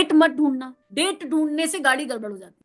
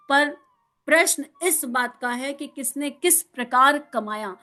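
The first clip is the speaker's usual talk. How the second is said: measured, deliberate scripture-style reading; reading aloud. Acted. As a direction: read the guru's teaching out with weighty pauses. Reads out the guru's words.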